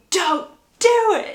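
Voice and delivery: drawn-out high, loud plea; retold desperate cry, stretched out; mock scream. Gregory bursting into the wedding to stop it, mock desperate scream.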